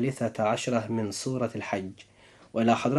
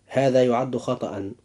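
normal talking voice

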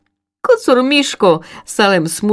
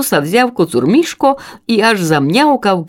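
plain reading voice

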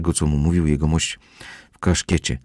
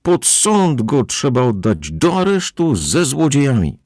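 angry crowd; 8 semitones higher than usual. A narrator's reading. Angry crowd demanding arrest.

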